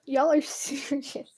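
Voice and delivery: slow, breathy whisper of disbelief; incredulous whisper. Real, not acted. Streamer to chat in amused disbelief, whispered slowly.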